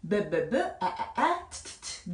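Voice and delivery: "B, 아, 트" each sound repeated three times; phonics sounding-out. Shown as a demonstration. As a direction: break bat into quick separate sounds "B", "아", "트". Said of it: "자, bat 했어요". ("B, 아, 트"를 소리마다 세 번씩 끊어서)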